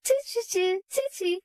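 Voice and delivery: put-on high repeated "chee" to amuse a baby; high-pitched playful chirps; playful baby-soothing noises. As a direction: make high little noises for a crying baby. Playing toy sounds for baby.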